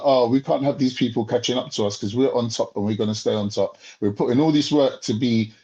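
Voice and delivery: smug superpower. Retold or imitated. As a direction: speak like a power guarding its top spot. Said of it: "They're like".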